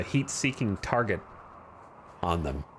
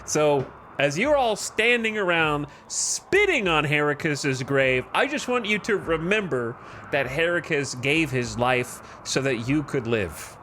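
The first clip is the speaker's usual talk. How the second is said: mock Birmingham gang-boss accent, high and pressed; Peaky Blinders accent; 4 semitones higher than usual. Colony leader scolds colonists at the graveside, in a Birmingham accent. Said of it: "I don't know why I just went into that accent".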